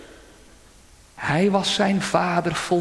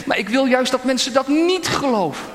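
higher, louder, fast astonished protest; Satan thrown by the idea; 7 semitones higher, 4 dB louder, faster than usual. A narrator's reading. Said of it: "Satan reageerde verbaasd".

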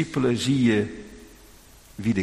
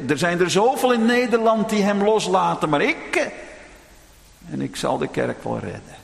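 proud boast; 6 semitones higher than usual. Retold or imitated. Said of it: "dat je denkt tegenover de Heere".

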